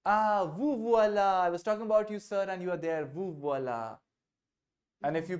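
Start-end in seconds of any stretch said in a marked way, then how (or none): 0.0-4.0 greeting someone arriving. Shown as a demonstration. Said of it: "I can also simply say".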